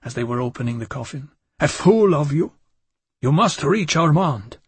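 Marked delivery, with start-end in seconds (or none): 1.6-4.6 louder, urgent outburst; bursting out. Acted. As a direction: blurt it out urgently. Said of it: "I burst out".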